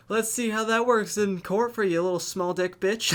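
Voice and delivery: high, laughing jeer; laughing taunt. Pretend. Mocking the driver about court, high laughing jeer. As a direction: taunt him through laughter.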